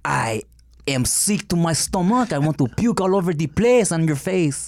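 hammed-up French disdain; French accent. Insulting the co-host in a fake French accent. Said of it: "we were doing the French accent".

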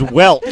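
"welt" ending in a clear T; saying welt. Retold or imitated. Friend mocks Anthony saying "welt" with a T. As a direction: put a T on "welt". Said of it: "with a T".

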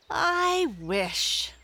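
high eager rabbit voice; a young rabbit, bright and high; Peter Rabbit voice. Acted. Peter asks the Breezes, in a high rabbit voice.

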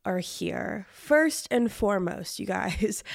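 under the weather; talking through a cold, sore throat; sick voice. Real, not acted. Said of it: "if I sound under the weather".

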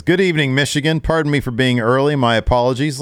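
Brock impression. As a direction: play Lesnar overly courteous. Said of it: "And Brock says".

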